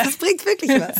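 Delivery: speaking on the in-breath; talking while inhaling. Shown as a demonstration. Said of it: "sprechen beim Einatmen".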